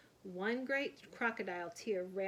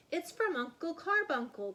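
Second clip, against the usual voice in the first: higher, louder excited cry; 7 semitones higher, 4 dB louder than usual. A narrator's reading. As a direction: cry out the news. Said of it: "cried Cousin Elwood".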